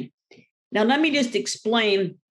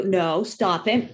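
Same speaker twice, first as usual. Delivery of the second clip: slow, patient correction; a mild no, still nicely said; lovely at first; 3 semitones lower, slower than usual. Shown as a demonstration. Owner correcting the puppy at the beginning, still lovely. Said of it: "we're all lovely at the beginning".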